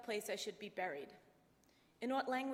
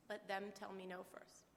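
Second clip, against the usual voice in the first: softer, reflective repeat of "Let them tell me no first."; quiet echo; 7 dB quieter than usual. Real, not acted. Daughter echoing her dad's motto, softly to herself. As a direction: say it under your breath, as a keepsake.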